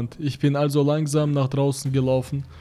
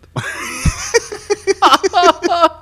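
high loud cackle; 7 dB louder than usual. Real, not acted. Bursts out laughing.

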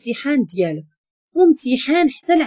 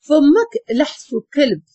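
slow, higher mocking line through a laugh; laughing retort; 4 semitones higher, slower than usual. Girl laughing off a question about marriage, mocking laugh. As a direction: laugh it out at her, taking your time.

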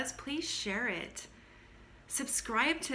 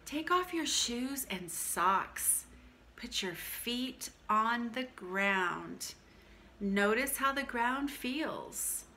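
slow, calm guided instructions; calm grounding exercise; slower than usual. Acted. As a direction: guide them gently into the body.

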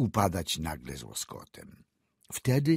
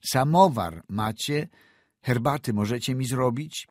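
louder, pressing repeat of the question; insistent repeat; 5 semitones higher, 5 dB louder than usual. A narrator's reading. Doctor repeating to the speechless old woman, insistent. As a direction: push the question again, louder.

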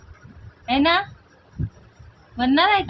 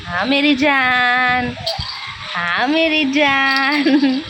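slow, lightly voiced dad cooing; a hint of dad's doting voice, drawn out; mother mimics papa cooing to the baby; imitating papa; much slower than usual. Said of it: "पप्पा काय बोलतात माहित आहे का बाळाला?".

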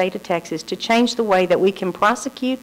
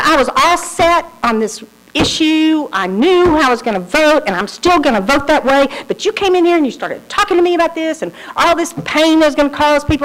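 retold anger; 6 semitones higher than usual. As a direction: play back her angry rant with a raised voice. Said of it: "she was obviously angry".

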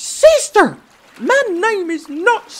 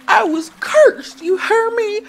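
high, tearful sobbing protest; 8 dB louder than usual. Acted. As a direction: cry it out, voice breaking with hurt. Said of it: "Princess Bucktooth sobbed".

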